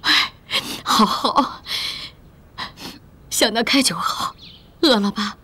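whispered. Acted. Mother gently soothing her grieving daughter, whispered. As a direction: breathe it gently.

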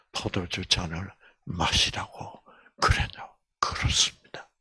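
hushed whisper. Retold or imitated. Angela asks the doctor about the cup, whispering. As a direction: ask it in an awed whisper.

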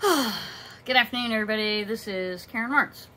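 slightly winded, catching breath. Real, not acted. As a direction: talk while still out of breath. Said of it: "I'm out of breath".

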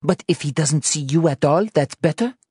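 high-pitched, sceptical retort; challenging. Acted. Anna argues with Joe on the landing, incredulous. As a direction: question it pointedly, pitched high.

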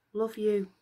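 soft, sad little echo; reply heartbroken; quiet mournful echo. Acted. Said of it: "was Echo's sad reply".

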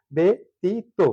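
"ব্যতীত" as be-ti-to; three separate open syllables in "ব্যতীত"; open-syllable demo. Shown as a demonstration. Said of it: "তিনটি মুক্তাক্ষর". ("ব্যতীত" তিন ভাগে ব্যা-তী-তো)

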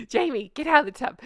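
high laughing call. Real, not acted. Calling to boyfriend again.

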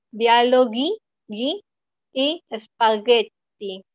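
"Dialoghi" y "spaghetti" con g de guitarra; aísla el "gui" de "Dialoghi"; combinación GH dura. Shown as a demonstration. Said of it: "recuerden que se pronuncia como ge". (g dura en "Dialoghi", "gui", "spaghetti")

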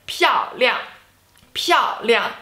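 漂亮 with both syllables falling sharply in pitch; two fourth tones. Shown as a demonstration. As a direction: say 漂亮 as fourth tone plus fourth tone. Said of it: "Fourth tone and fourth tone".

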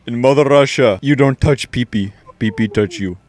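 hammed-up Russian accent. Gamer capping the Soviet Russia joke, Russian accent. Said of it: "your best Russian accent".

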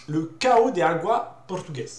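slow, careful Portuguese pronunciation of the breed name; Portuguese accent. Shown as a demonstration. Dog vlogger naming the Portuguese breed in a Portuguese accent. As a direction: try a Portuguese accent on "Cao de Agua portugués". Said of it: "Je sais pas si mon accent".

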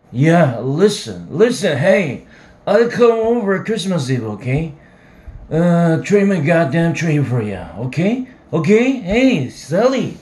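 put-on drunk shouting.

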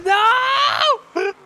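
loud high no; shouting. Real, not acted. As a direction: shout it in panic. Ball near own goal.

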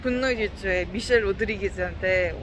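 muffled behind surgical mask; speaking under mask; through a face mask. Real, not acted. Seen 0: Surgical mask covers mouth throughout selfie talk; reference frames unmasked.

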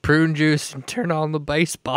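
a hint of loud old codger; mock old-timer. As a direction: play at being an elderly viewer. Acts out an elderly baseball viewer.

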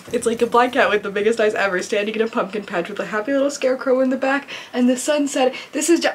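ordinary talk

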